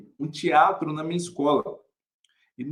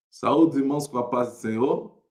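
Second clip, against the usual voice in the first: stock church greeting; 4 semitones lower than usual. Acted. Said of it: "peguei o microfone aqui e".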